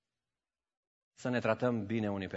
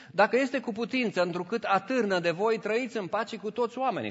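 high, ringing Bible reading; raised preacher's reading voice; scripture reading; 8 semitones higher, 3 dB louder than usual. Acted. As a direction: proclaim the verse to the congregation. Reads scripture aloud.

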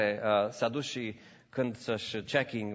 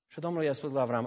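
usual speaking voice

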